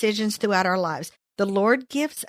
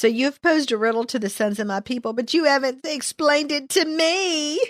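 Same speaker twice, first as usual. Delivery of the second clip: acted-out, whiny, nagging, complaining voice; 4 semitones higher than usual. Retelling a story about a just-married couple, voicing her: put-on whiny voice. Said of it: "I'm trying to get my whiny voice going on".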